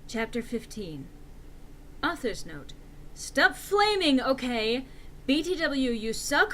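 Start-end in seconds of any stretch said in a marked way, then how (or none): 3.1-6.5 higher, louder slow scold. Acted. Author scolding her readers, loud and slow. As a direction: tell the haters off slowly.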